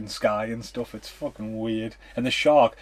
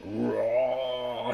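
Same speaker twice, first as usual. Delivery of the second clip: mock shark roar. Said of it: "It starts roaring".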